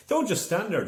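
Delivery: high, loud plea as the sheet pulls away. A narrator's reading. Aisling to Joe, struggling with the rope, urgent shout. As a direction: yell for help, urgent. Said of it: "she said".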